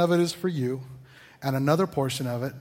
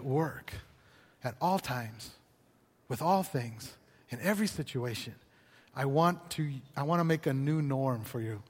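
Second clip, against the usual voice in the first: tender God's voice. Retold or imitated. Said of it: "when he says".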